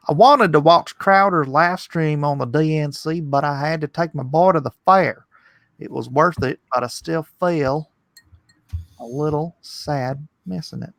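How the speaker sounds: lightly put-on Southern redneck accent. Streamer reading a redneck viewer's comment, mild Southern accent. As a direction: read it like a Southern good ol' boy. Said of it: "That was your Southern accent".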